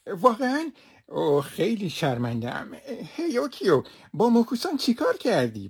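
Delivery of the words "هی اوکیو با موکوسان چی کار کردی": scolding call. Acted. Master scolding the maid over the torn net, raised and sharp.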